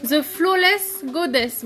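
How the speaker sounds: slow, careful English with a French accent; French speaker carefully sounding out English. Shown as a demonstration. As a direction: repeat the English name slowly, French accent showing. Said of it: "il a plus l'accent anglais que moi".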